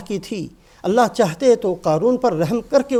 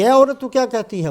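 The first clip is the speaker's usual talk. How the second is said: louder, higher retold angry challenge; stern, majestic wrath; 3 semitones higher, 4 dB louder than usual. Musa rebukes the woman who accused him, in retold wrath. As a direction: confront the accuser in mock wrath. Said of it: "جلال میں آئے".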